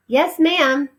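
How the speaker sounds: high, quick, dutiful reply; meek maid. Acted. The maid answers the head housekeeper, high and dutiful. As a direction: answer your boss obediently.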